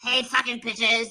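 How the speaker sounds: lightly voiced mock Molly greeting the chat; a hint of a brash streamer cursing at viewers; Molly impression. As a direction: crude chat greeting in a borrowed voice. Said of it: "How do you do impressions so good?".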